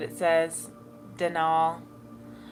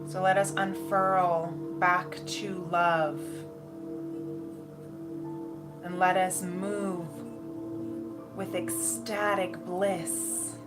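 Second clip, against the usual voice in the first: airy breathy mystical healer. Acted. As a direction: guide them gently into bliss, unhurried. Channels a guided meditation with music.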